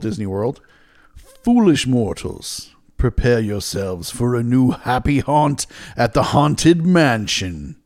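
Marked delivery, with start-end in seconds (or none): 1.4-7.8 lightly spooky Ghost Host voice. Acted. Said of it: "Was that your evil laugh?".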